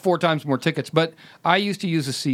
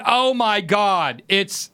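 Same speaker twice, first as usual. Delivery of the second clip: retold exasperation; 3 semitones higher, much slower than usual. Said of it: "and he's going".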